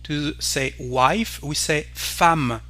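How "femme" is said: femme said as "fam". Shown as a demonstration. Teacher showing an exception for wife, E like A. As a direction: say femme with an A vowel, drawn out. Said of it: "it's like the letter A".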